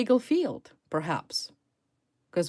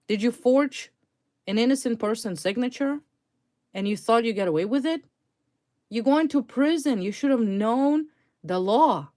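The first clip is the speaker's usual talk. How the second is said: louder, higher, scolding the fraudster directly; indignant scolding; 3 semitones higher, 5 dB louder than usual. Real, not acted. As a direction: lecture her hard, as if she stood in front of you.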